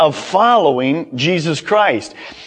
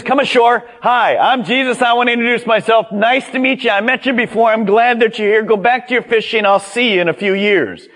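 high, quick, chatty introduction; mock a casual nice-to-meet-you greeting; Jesus; 7 semitones higher, faster than usual. Preacher parodies a casual introduction to fishermen, high chatty mock voice. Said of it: "this was not some introduction from Jesus".

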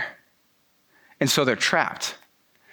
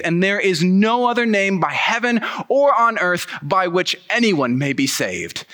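raised, insistent voice of a defiant preacher; bold preaching Peter; 4 semitones higher than usual. Acted. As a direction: hit them with it like a fearless apostle. Peter boldly answering the council.

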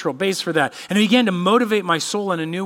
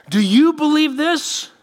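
slow, higher and louder, pressing on you; pointed slow question; 10 semitones higher, 5 dB louder, slower than usual. Acted. Jesus pressing Martha to answer, slow and pointed. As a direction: ask it slowly and let it land.

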